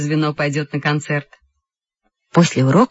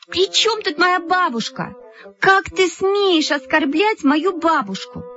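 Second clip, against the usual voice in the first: high, drawn-out indignation; outraged protest; 11 semitones higher, slower than usual. A narrator's reading. Lyuska defends her grandmother, outraged. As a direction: stretch each word in offended fury.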